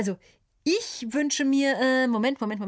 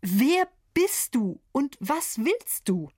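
demanding; 4 semitones higher, slower than usual. Acted. Host confronts beggar fairy.

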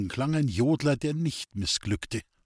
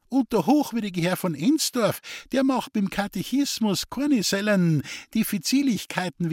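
put-on sly gossipy old woman; 7 semitones higher than usual. A narrator's reading. Scheming mother voiced in story.

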